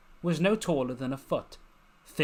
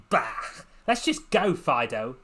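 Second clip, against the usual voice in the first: hissed; 5 dB louder than usual. Acted. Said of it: "she hissed".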